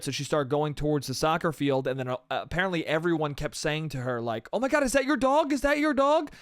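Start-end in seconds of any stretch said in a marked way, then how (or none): 4.5-6.3 high, urgent bystander voice; mock concerned onlookers. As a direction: pipe up like a worried passerby. Voicing excited onlookers in a retold chase.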